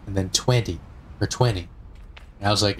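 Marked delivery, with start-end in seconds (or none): 0.3-1.7 twenty with a soft or missing second T; casual "twenty", said like "twendy" or "twenny"; T softened. Retold or imitated. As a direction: let the T in "twenty" go slack, then drop it. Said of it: "just say twenty".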